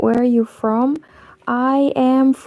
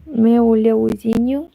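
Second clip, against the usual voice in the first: Meu leozinho asked with a rising Brazilian tune; Brazilian Portuguese accent. Retold or imitated. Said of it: "you can see that I can imitate some accents".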